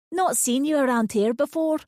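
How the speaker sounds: curious and friendly; old lady. A narrator's reading. Old lady quizzing a newcomer, curious and sweet.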